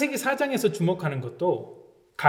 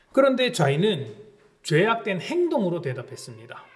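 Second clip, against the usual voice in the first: usual speaking voice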